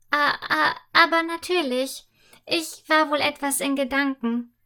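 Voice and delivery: put-on girl caught out answering the maid quickly; flustered quick answer. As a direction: scramble for an excuse. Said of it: "antwortet Fia schnell".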